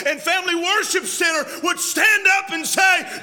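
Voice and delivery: loud, fired-up pulpit delivery; fiery preaching. Acted. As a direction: preach it with full fire to the church. Preaching at full force.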